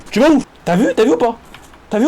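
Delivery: a sharp loud call. Acted. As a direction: shout after him as he walks off. Calling after walking character.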